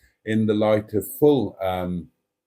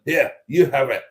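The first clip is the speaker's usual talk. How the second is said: mock Scottish; 3 semitones higher than usual. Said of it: "suddenly Scottish".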